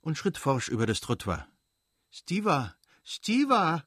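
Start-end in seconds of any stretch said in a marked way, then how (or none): 2.1-3.8 calling out. Acted. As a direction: call him back, flustered. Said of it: "rief Dolly errötend".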